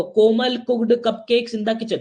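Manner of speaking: "कोमल cooked cupcakes in the kitchen" drawn out very slowly; each word spaced and deliberate; slow careful tongue twister. Shown as a demonstration. Teacher demonstrates the alliteration slowly to class. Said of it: "देखो".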